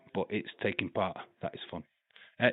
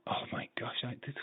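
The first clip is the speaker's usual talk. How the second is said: awed whisper; 2 semitones higher, 10 dB quieter, faster than usual. Real, not acted. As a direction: whisper it like you can't believe it. Awed whisper over movie list.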